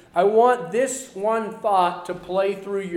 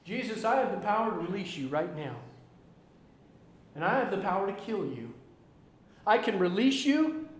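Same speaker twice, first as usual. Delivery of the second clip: Pilate threatening; 7 dB quieter than usual. Retold or imitated. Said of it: "Pilate looks at him and he says".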